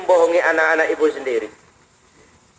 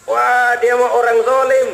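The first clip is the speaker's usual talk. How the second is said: slow, bitter "zalim" drawn out; mild mock scorn from the poor mother; resentful complaint; 4 semitones higher than usual. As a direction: grumble it like a wronged widow. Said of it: "kata Ibu tadi".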